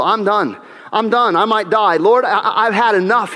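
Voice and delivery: whiny, half-joking despair; mock despair. Preacher voicing weary Elijah complaining to God, mock despairing. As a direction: moan it like a worn-out prophet. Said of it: "he says".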